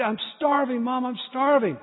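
whiny plea. Retold or imitated. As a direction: whine it like a hungry boy. Child whining to mom.

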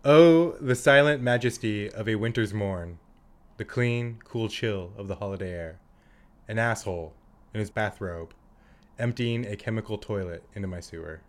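low, measured mock-poetic recital; deep voice. Friend performs the movie quote on request, in a deep voice. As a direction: recite it solemnly in your deep voice. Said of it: "Do it in your deep voice".

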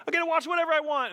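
fast, high, laughing boast; laughing mock glee. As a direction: giggle at the newfound freedom. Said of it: "I'm like".

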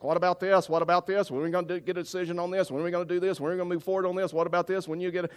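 mock a committee firing questions without a break; pestering pastors. Pastors pressing him in a long meeting, mock nagging.

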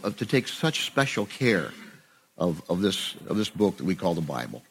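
earnest, steady spoken prayer. Acted. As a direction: pray over the group sincerely. Closing prayer for the group.

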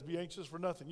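"Be anxious for nothing" said softly, with a falling "nothing"; soft restatement. Shown as a demonstration. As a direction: quietly settle on "Be anxious for nothing". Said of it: "follow what God says".

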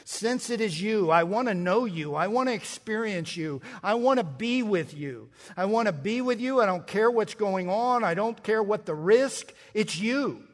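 impassioned plea. Acted. Preacher speaking as Peter longing for Jesus, impassioned. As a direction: pour out longing with mounting insistence.

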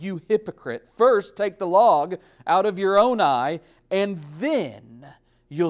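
loud, high rebuke; preaching full force. Acted. Preacher voicing Jesus rebuking the hypocrite, loud and high. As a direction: hurl the rebuke at them.

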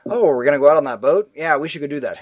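mock movie dialogue running into gibberish; quick, loud start sliding into garbled babble; Ben Foster. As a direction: lightly imitate an actor who's hard to understand. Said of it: "I think Ben Foster. He would come in and he'd say".

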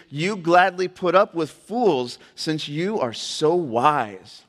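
pointed, emphatic reading aloud; sarcastic scripture reading. Acted. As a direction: punch each item in the list. Reads Paul's sarcastic verse aloud.

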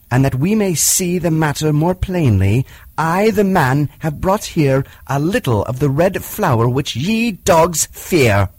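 put-on a young man-cub facing down the wolves; defiant boy Mowgli. Mowgli defies the wolf council.

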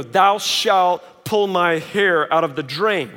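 slow, solemn mock scripture; mock decree from a stern rulebook, solemnly slow; mock commandment. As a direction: intone it like a stone tablet. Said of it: "some rule that says".

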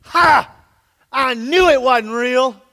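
loud, slow gotcha jeer; a mocking loud told-you-so; gloating shout. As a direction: crow it out like you caught them. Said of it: "I'm gonna jump up and go".

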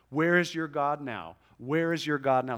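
mocking taunt. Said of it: "Where is your God is a taunt".

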